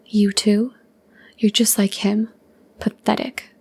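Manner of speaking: whispered, looking down on him; condescending. Acted. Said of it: "Lyra said condescendingly".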